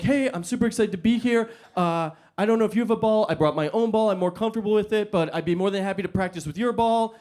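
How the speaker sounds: bright, eager, a little too keen; overeager excitement. Retold or imitated. Actor greeting the director, overeager and excited. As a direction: pitch yourself up as the overexcited new actor.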